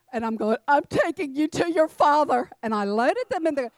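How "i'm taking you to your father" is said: loud, raised-pitch mock scolding; retold angry threat. Worked-up mother loading crying children into car, loud mock threat.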